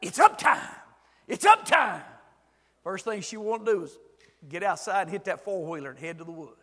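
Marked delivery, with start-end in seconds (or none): 0.0-2.0 put-on high, loud little girl's voice; little girl waking her grandpa; toddler granddaughter. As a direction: call out like an eager toddler. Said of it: "and she'd say".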